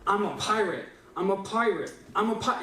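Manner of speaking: mock frustration starting to build; growing frustration. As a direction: insist on it, getting frustrated. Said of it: "more and more frustrated".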